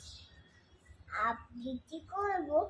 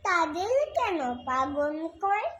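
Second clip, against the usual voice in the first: lilting, measured recital of a verse; poem recitation; 4 semitones higher, 4 dB louder than usual. Acted. Reciter performing Sukumar Ray's poem for listeners, lilting recitation. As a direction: recite line by line, pausing between phrases, questions sung out.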